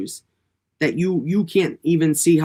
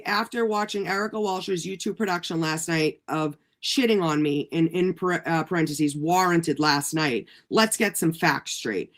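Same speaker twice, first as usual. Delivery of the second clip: measured, quieter formal read-out; deliberate formal recitation; reading it out formally; 4 dB quieter than usual. Real, not acted. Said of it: "okay, so let me say".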